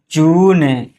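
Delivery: long drawn-out "जून". Shown as a demonstration. Teacher showing the long ū matra, "जून" held long. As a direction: hold the ū in "जून". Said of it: "थोड़ा देर तक करेंगे".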